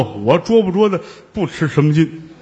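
chuckling, offhand, stress on 捉; laughing shrug. Acted. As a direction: toss off 我捉不捉的不吃什么劲 with a laugh. Fake monk shrugs it off.

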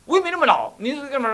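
mock-scolding the disciple in front of others; retold scolding. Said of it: "他就骂我".

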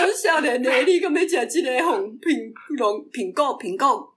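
witch voice. Retold or imitated. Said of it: "巫婆出来的时候".

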